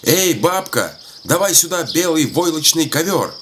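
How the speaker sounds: put-on high-pitched call to the old woman. A narrator's reading. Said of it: "старик кричит". (старик громко зовёт бабку)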